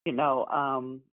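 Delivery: hoarse after a cry. Real, not acted. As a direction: voice worn from crying. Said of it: "I sound like this because I've been crying".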